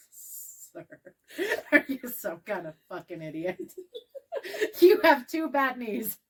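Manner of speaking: giggling mock outrage; laughing through words. Retorting to dad, laughing.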